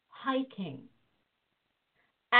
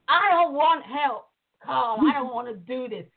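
moaning refusal. Retold or imitated. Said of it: "I was moaning".

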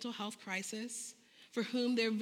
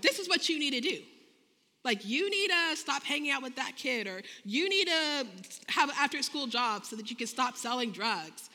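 bossy telling-off; 2 semitones higher, 4 dB louder than usual. Retold or imitated. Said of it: "I would just tell them, like".

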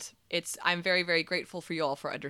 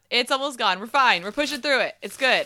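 hoarse; 5 semitones higher, 4 dB louder than usual. Real, not acted. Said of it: "You're losing your voice".

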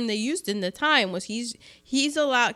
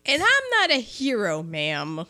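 grumbling reluctant resolve; 5 semitones higher than usual. Acted. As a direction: beg off, reluctant and higher. Acting out the nerdy station master.

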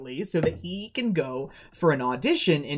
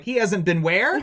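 incredulous question; 2 semitones higher than usual. Retold or imitated. Retelling dad's shocked question.

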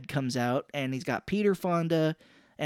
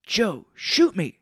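slow, louder mock plea; acted urging; 5 semitones higher, 5 dB louder, much slower than usual. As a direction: draw out a pretend command to Joe. Retold plea, first take.

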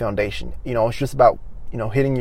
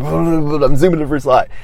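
laughing; 4 semitones higher, 7 dB louder than usual. Real, not acted.

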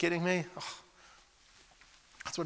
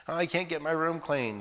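higher, slow mocking whine; 6 semitones higher than usual. Preacher mocking excuses about chores, whiny. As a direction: mimic a lame excuse.

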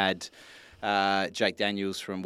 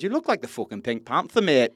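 lightly attempted Geordie, a little higher; rough Geordie accent; 4 semitones higher, 4 dB louder than usual. Podcaster quoting a jibe about his jacket, rough Geordie accent. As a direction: have a half-hearted go at a Geordie accent. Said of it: "do the best Geordie accent".

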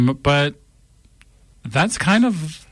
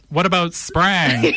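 laughing; 4 semitones higher, slower than usual. Retold or imitated. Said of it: "he can't stop laughing".

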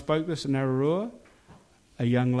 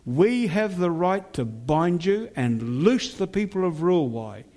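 fierce commanding prayer. Acted. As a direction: rebuke the spirits with authority. Binding spirits over the town.

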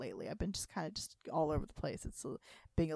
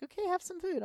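high, coaxing mom impression; 12 semitones higher than usual. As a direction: imitate mom offering food. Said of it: "Mom's like".

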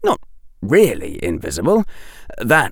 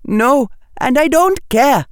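defiant retort; 4 dB louder than usual. A narrator's reading. Defiant girl snaps back.

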